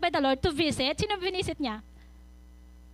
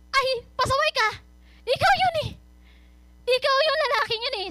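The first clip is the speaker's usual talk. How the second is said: scolding prophet; 7 semitones higher than usual. Retold or imitated. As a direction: scold him like a prophet calling out sin. (galit na pagsaway ng propeta)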